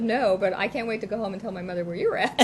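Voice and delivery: laughing through the retort; cheeky comeback. Retold or imitated. Child sassing Dee Dee back, laughing through the words. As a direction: toss it back, giggling.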